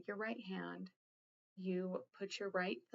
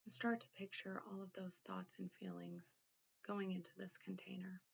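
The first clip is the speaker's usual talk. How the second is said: guided meditation. Acted. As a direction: gently guide the listener inward, leaving room to think. Leads a guided containment exercise.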